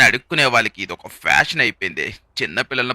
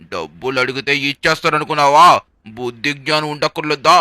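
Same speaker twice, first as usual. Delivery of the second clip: angry shouting; 3 semitones higher, 5 dB louder than usual. Acted. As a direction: yell at him in disgust. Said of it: "అరుస్తున్నాడు". (కోపంగా అరవడం)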